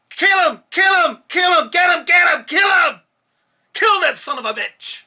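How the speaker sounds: high, furious screamed chant; violent screaming cop. Retold or imitated. Officer yelling at fellow cops during the beating, savage scream. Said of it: "I said it just, just like that".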